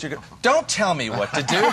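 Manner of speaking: defensive snap. Pretend. Acted defensive reply to partner.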